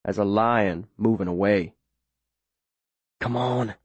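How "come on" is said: soft hushed urging under the breath; whispered to himself. Acted. Boy in the boat urging himself on, whispered. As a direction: breathe it to yourself, barely voiced. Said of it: "I whisper to myself".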